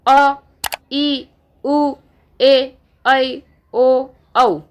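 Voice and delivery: ई, ऊ, ए, ऐ, ओ, औ each held long; long vowels demo. Shown as a demonstration. Teacher to class, demonstrating long vowels. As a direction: stretch each vowel to double length. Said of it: "समय दोगुना लग रहा है".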